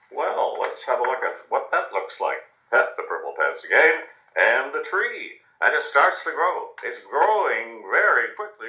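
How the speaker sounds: gentle, lively storybook reading; reading to children. A narrator's reading. News anchor reads a picture book to children at home, gently. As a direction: tell it like a bedtime story to small kids.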